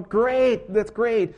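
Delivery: the farmer delighted to see the donkey climb out; happy farmer. Retold or imitated. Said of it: "And so he's going".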